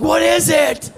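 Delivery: high, loud bewildered villagers; hammed-up caveman bewilderment; mock startled crowd. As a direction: shout it like astonished cavemen. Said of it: "everyone around him was like".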